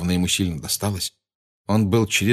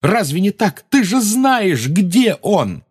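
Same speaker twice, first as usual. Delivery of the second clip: high, loud insistent shout; 11 semitones higher, 5 dB louder, slower than usual. A narrator's reading. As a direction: keep shouting the accusation. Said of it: "закричал Гарри".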